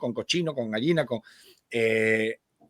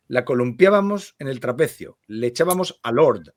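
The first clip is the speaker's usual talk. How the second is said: measured literary read-aloud; lectura literaria. Acted. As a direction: read the story aloud with care, phrase by phrase. Lee en voz alta. (lectura literaria en voz alta)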